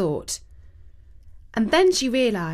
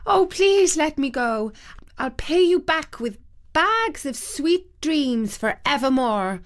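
higher, pleading fairy voice; frightened fairy; 6 semitones higher than usual. A narrator's reading. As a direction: beg frightened, pitched up. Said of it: "replied the frightened fairy".

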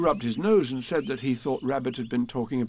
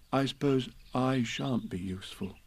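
soft, glum Pooh; a bear feeling useless; sadly; 6 dB quieter than usual. A narrator's reading. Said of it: "said Pooh sadly".

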